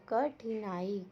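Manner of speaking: "कठिनाई" slowly split as क-ठि-नाई; syllable by syllable. Shown as a demonstration. Teacher breaking a word up for pupils, "कठिनाई" in slow syllables. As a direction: draw out each syllable of "कठिनाई".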